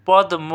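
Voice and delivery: পদ্ম with m sounded, "pod-mo"; as written. Shown as a demonstration. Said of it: "মূলত এখানে কি". (পদ্ম-র ম স্পষ্ট উচ্চারণ)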